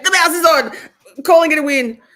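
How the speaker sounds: loud, laughing triumph over the mouse; laughing relief. Real, not acted. Streamer celebrating working mouse to chat, laughing loud.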